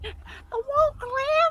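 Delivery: laughing. Real, not acted. Mishearing, laughing.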